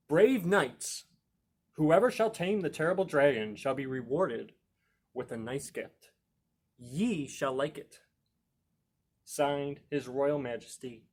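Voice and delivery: a hint of a booming herald; royal proclamation. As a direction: read it out like a town crier. King's sign read as proclamation.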